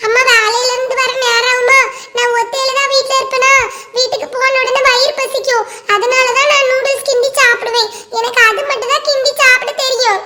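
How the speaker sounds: a hint of a child's sing-song; pupil explaining. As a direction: recite excuses to the teacher like a kid.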